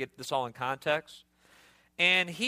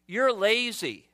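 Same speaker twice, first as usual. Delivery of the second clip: slow, higher scolding jab; accusing; 5 semitones higher, slower than usual. Shown as a demonstration. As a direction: call him lazy to his face. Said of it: "idle speak to laziness".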